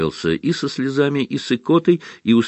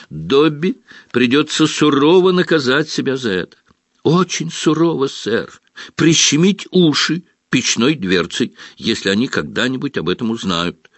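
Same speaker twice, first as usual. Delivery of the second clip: house elf voice; 7 semitones higher than usual. Acted. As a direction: speak as a meek house elf. Dobby speaks.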